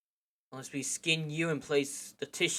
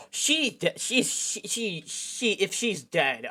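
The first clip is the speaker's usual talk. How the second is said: high, stammering panic; gasping stammer at the thought of her death; panicked stammer; 5 semitones higher, 5 dB louder, much slower than usual. Acted. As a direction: stumble over the words in fear. Panic about friend dying.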